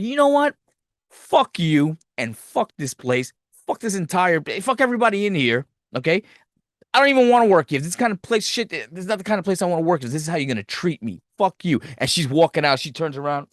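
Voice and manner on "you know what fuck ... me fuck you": half-acting her storming out, fed up; a hammed-up interviewee telling everyone off; retold blowup.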